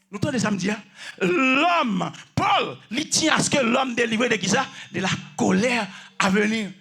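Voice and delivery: insistent sermon exposition, stretching key words; emphatic preaching. Real, not acted. Preacher explaining Paul's message to listeners, emphatic preaching. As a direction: drive the teaching home.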